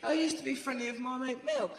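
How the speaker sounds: quick, soft, high little voice for Liam's wife; imitating her, soft and fast. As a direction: mimic her breathy politeness at speed. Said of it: "So she's going".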